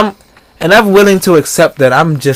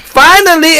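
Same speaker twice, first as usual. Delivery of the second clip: high, drawn-out cheer; retold triumphant cry, pitched way up; exultant relief; 10 semitones higher, slower than usual. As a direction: celebrate as if long awaited. Retells own exultant reaction.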